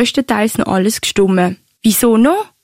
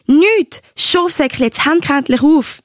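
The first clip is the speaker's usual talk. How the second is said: höher, halb gespielte Ungeduld; gespielt genervt; 5 semitones higher than usual. Retold or imitated. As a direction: neckisch drängeln, er soll auflegen. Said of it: "hat's amix etwa so tönt". (Oma spielt den Liebesstreit am Telefon vor, gespielt genervt)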